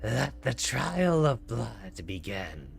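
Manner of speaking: slow booming proclamation; dramatic monster voice. Acted. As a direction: announce it slowly like a beast. Voicing the beast dramatically.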